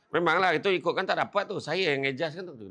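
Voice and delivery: brushing off thanks with smug pride; boastful brag. Acted. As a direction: take all the credit proudly. Boastful person denies God's help.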